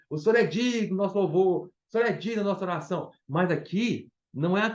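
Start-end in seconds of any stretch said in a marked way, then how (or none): 0.1-3.1 lightly voiced churchgoer's stock phrase, a little higher; a hint of imitating how believers usually say it; quoting common believers. Preacher mimicking what Christians typically say. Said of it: "Todos os cristãos ... se referem a louvor e adoração".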